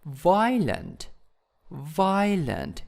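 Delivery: "violent" punched on VI; stress on first syllable. Shown as a demonstration. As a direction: lean on the start of "violent", then let it fall. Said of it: "in the first syllables".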